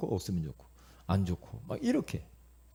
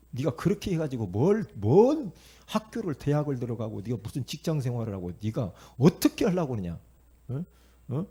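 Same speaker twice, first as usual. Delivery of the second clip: mock parental telling-off with loud bursts; scolding parent; 3 dB louder than usual. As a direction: nag the child with punched, exasperated questions. Voices parent scolding child over studies.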